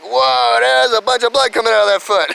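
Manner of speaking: high, loud startled whoa; as a kid seeing his own blood; retold alarm at the wound; shocked at blood. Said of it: "I'm like".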